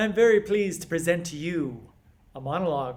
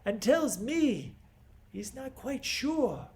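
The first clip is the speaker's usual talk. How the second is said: Creon; 2 semitones higher than usual. Acted. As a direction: lecture a proud niece in deliberate, pause-laden phrases. Performs Creon's monologue to Antigone.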